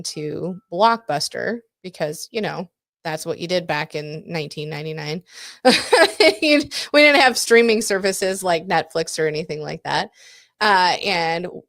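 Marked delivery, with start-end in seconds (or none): 5.3-6.4 a bright burst of laughter, high and loud. Real, not acted. Laughing at 1999 memory.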